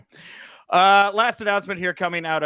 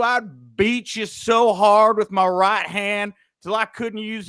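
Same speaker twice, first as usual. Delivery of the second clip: higher, slow Southern drawl, words planted one by one; Southern twang; 6 semitones higher, slower than usual. Retold or imitated. Wrestler threatening a stranger backstage, in a slow, higher Southern twang. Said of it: "the Southern twang you really emphasized on his voice".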